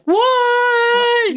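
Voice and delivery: high, loud, disbelieving shout; shocked shout. Retold or imitated. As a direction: yell it in total disbelief. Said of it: "we'd be like".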